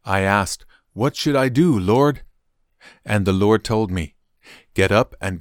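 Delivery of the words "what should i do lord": higher-pitched, pleading question; urgent questioning. A narrator's reading. Saul asking the Lord what to do, urgent questioning. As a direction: ask for direction, voice lifted.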